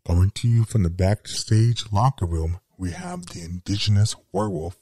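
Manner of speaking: gravel-edged werewolf wrestler cutting a backstage promo. Acted. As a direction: growl the promo like a nineties heel. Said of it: "this is how it will sound".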